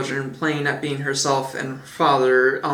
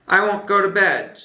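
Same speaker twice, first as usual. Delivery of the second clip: put-on child shouting; 6 semitones higher, 4 dB louder than usual. A narrator's reading. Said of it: "he had shouted".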